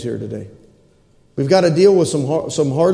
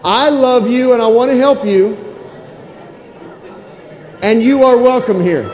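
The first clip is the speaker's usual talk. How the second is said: modelling the greeting; 5 semitones higher than usual. Shown as a demonstration. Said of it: "Look at your neighbor right there next to you and say".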